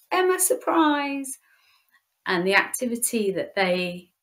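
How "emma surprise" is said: high, slow, sing-song Emma, surprise; girls' surprise call. Retold or imitated. Girls greet their leader at the party door, drawn-out sing-song cheer. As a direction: draw it out like excited girls springing a surprise.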